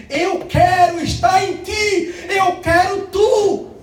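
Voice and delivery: slow, high, loud declaration; voice of God. Retold or imitated. Almighty God calling to the listener, slow loud declaration. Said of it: "o Deus Todo-Poderoso diz assim".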